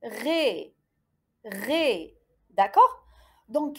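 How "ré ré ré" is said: "Ré" with a long closed é; syllable demonstration. Shown as a demonstration. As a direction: model "Ré" as one syllable. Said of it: "تحصلت على".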